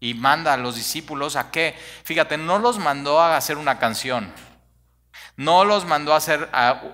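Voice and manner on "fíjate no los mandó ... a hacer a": loud preaching. Real, not acted. Building sermon point.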